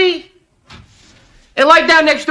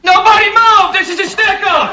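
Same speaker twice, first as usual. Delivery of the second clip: yelling; 5 semitones higher than usual. Acted. Robber bursts in.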